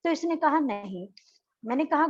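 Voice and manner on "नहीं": barely audible, dropped-off no; a small defeated no; meek no. Acted. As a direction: mumble the no like a sick child. Boy keeps answering no.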